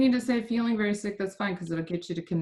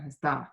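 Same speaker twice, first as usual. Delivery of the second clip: "Está" with a falling, stressed TÁ; stress on ending; 5 semitones lower than usual. Shown as a demonstration. Teacher confirming the student's answer, Está stressed on the ending. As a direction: stress the last syllable of Está. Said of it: "really emphasize the ending".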